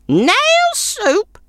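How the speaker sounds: very high crone voice, scoffing; scornful snort. A narrator's reading. Old woman scoffing at the traveller's nail soup, high scornful crone. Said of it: "snorted the old woman".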